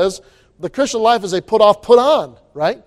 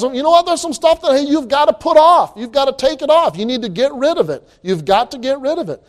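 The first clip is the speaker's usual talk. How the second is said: raised, pressing voice of Paul urging the church; urgent exhortation; 5 semitones higher than usual. Acted. Preacher voicing Paul urging believers to put off sin, high and urgent. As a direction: push it hard, a higher urgent plea.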